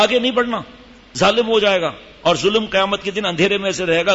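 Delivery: mildly forceful, imitating a father's protest; forceful warning. Father warning his son to drag him no further, mildly forceful. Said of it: "باپ نے زور سے کہا".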